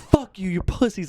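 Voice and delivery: slow high taunt, not really shouted; retold yelling. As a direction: imitate a drunk hurling insults. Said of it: "just yelling all this shit".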